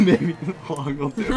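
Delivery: teasing echo of a partner, slow and laughing; drawn-out mock repeat; mocking imitation. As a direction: mimic your partner's suggestion through laughter. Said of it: "Are you mocking me?".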